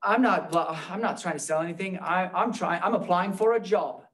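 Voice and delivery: lightly put-on Australian accent; imitated Australian accent. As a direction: quote the radio spot with a hint of Australian. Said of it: "he has this great Australian accent".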